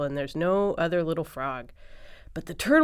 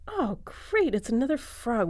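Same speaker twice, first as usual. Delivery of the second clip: high-pitched, happy exclamation; delighted story dog; 6 semitones higher than usual. Acted. Story dog welcomes the new frog.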